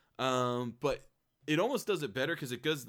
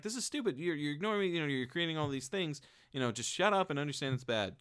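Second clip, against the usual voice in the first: higher, exasperated scolding; annoyed protester; 5 semitones higher, faster than usual. Retold or imitated. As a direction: scold him like he's dense. Annoyed girlfriend voiced.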